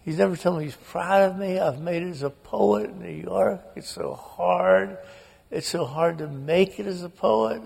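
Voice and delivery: a hint of a weeping sister; upset sister. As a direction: sister sobbing to brother about father. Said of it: "she's going".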